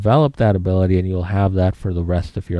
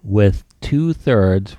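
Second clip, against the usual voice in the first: dictating; much slower than usual. Shown as a demonstration. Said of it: "write the numbers two slash three".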